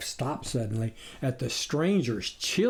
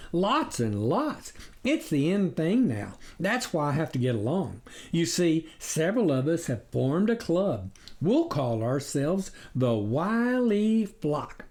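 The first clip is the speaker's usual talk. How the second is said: raised, cunning coyote voice; a sly predator playing innocent; sly stranger; 3 semitones higher than usual. Coyote stranger boasting to the farmers, sly voice.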